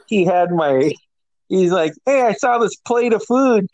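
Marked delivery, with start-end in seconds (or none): 2.0-3.7 higher, playful teasing; teasing buddy. Retold or imitated. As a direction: needle your hungover friend. Friend teasing.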